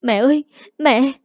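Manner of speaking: startled, frightened shout; panicked call. Acted. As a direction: cry out for mother in alarm. Mother faints, daughter cries out.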